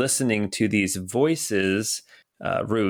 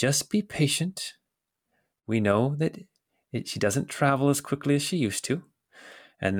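voice raised above normal pitch; 4 semitones higher than usual. Narrating a scene where two voices talk, the second one replies: higher voice. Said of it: "you hear a higher voice say".

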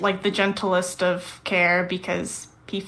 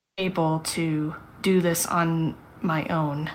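careful, deliberate delivery; 2 semitones lower than usual. Jude answering a companion who questions their trust, said carefully.

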